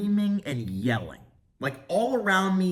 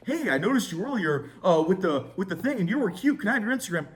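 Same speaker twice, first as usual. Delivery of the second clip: higher, hesitant, mock-nervous pickup line; mock timid ask; 4 semitones higher, faster than usual. Mocking a timid guy asking a flight attendant, hesitant and higher. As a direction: play the shy guy asking too late, lightly mocking. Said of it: "Gay, dumb, boring doesn't work".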